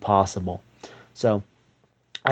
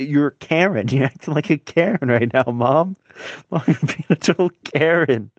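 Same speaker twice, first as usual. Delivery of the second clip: put-on defiant teen; 4 semitones higher than usual. Teen telling off his mom.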